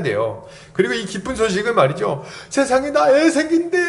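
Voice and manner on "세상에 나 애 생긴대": high, bursting with joy; sharing the baby news in raptures; thrilled news. Retold or imitated. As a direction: blurt it out like a giddy new mother. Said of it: "이러고 막 여기저기가 소문내고 막 좋아갖고".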